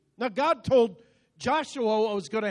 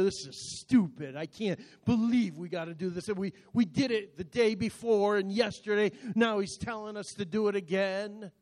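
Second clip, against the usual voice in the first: grumbling; 3 dB quieter than usual. Acted. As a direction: grumble it under the preaching level. Acted grumbling of marching army.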